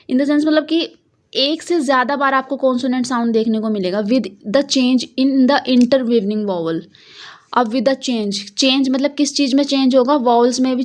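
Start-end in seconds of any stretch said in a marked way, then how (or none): 4.0-6.8 slow reading. Shown as a demonstration. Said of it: "इन्होंने लिखा हुआ है".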